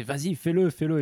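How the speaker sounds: imitation d'un ami qui insiste; insistance rejouée. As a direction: rejouer un encouragement pressant, un peu plus haut. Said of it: "je te disais". (insistance rejouée, ton pressant)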